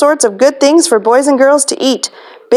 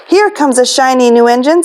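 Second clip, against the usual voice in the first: clown voice; 3 semitones higher than usual. Acted. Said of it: "said the funny little clown".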